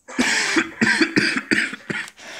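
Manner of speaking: sudden fit of coughing; fake dying cough. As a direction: choke and splutter as if collapsing. Fake collapse mid interview.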